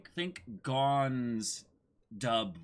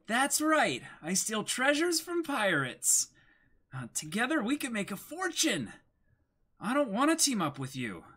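higher, brighter cartoon voice, light and quick; dubbed anime girl. Reading anime lines aloud: higher dubbed cartoon voice. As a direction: play the sly thief teasing the boy. Voices Nami and Luffy dub.

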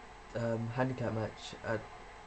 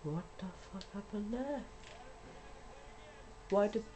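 incredulous; 8 semitones higher, 6 dB quieter than usual. Real, not acted. Shocked by game glitch.

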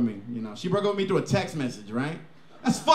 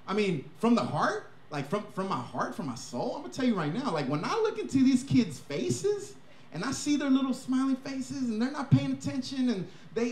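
softer, slow heartfelt confession; from the heart, softly, then let the punchline slip; mock sincere; 3 semitones higher, 6 dB quieter than usual. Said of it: "I was like".

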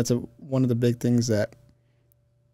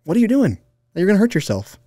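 higher-pitched mock motherly scolding; scolding mom; 8 semitones higher than usual. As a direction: imitate a mom scolding her child. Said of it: "and scolds you".

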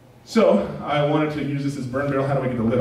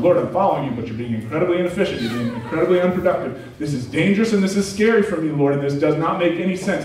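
mock frustration; 5 semitones higher, 3 dB louder than usual. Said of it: "I yell at him in opposition and frustration".

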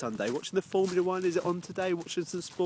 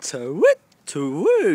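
owl hoot; 5 dB louder, slower than usual. Pretend.

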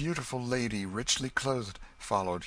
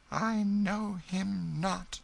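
dead voice; 12 semitones higher, much slower than usual. A narrator's reading. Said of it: "in a voice as dead as the face".

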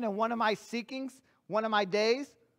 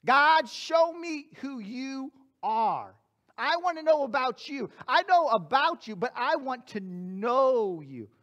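earnest prayer. Retold or imitated. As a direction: pray it from the heart, unhurried. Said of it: "that's what I said to God".

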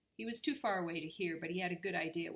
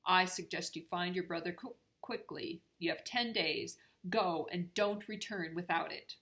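stern; 5 dB louder than usual. Acted. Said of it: "said Nora sternly".

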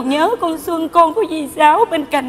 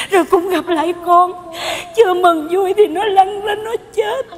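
crying; 3 semitones higher than usual. Acted. Tearful telling of friend's death.

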